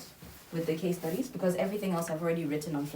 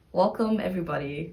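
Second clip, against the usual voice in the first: energetic intro; 4 dB louder than usual. Real, not acted. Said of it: "I'll just start with".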